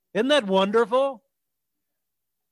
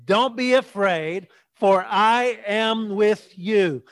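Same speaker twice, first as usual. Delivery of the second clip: slow, firm, spaced-out words; said with conviction; much slower than usual. Shown as a demonstration. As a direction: lead the congregation, meaning every word. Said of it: "Say it like you mean it".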